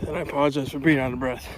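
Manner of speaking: ordinary talk, nothing marked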